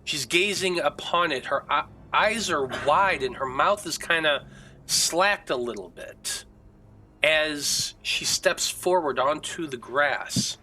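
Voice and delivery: dramatic scene setting with long suspenseful pauses; game master's narration. A narrator's reading. Game master describes Irina's agony to players, suspenseful narration. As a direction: draw out the eerie scene, phrase by phrase.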